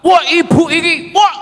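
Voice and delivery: high shouted brat voice; mock sassy child. Preacher voices a child yelling back at mother, high mock shout. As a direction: yell it like a kid talking back to mum.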